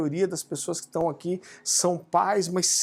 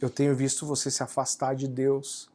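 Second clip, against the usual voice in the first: tearful mother; 5 semitones lower, 4 dB quieter than usual. Retold or imitated. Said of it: "ela chorando".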